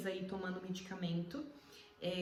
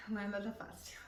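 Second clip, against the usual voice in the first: whispered; 3 dB quieter than usual. Real, not acted. In pain, short of breath.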